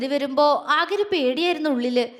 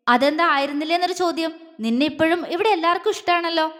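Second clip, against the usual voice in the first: fast, firm rebuke; brisk stern questioning; hardened voice; 3 semitones higher, faster than usual. Acted. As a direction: press her quickly and sternly. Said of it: "അഗ്നിയുടെ സ്വരം കടുത്തു".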